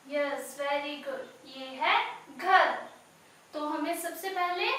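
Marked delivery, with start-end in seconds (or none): 1.5-2.8 put-on clear, loud model word for kids. Shown as a demonstration. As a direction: call the word out for the class to copy. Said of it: "इसकी sound को सुनना है". (बच्चों के लिए ज़ोर से शब्द)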